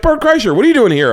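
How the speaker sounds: high, loud excited greeting; imitated delighted shout of recognition; Johnny Knoxville. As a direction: hail an old buddy in a high-pitched yell.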